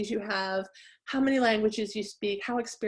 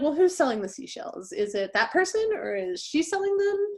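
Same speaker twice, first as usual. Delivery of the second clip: mock-puzzled question pitched high; confused listener; 6 semitones higher than usual. Listener confused by third-person pronouns, mock-puzzled and higher. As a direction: play a baffled listener lost in the pronouns. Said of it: "somebody might be like".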